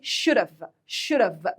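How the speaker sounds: "should have" run together as "shoulduv"; American linked pronunciation. Shown as a demonstration. Teacher showing students the American pronunciation, linked "should have". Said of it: "بس بتتنطق إزاي؟".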